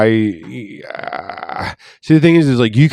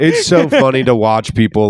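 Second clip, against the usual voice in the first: laughing. Real, not acted. Laughs while saying it.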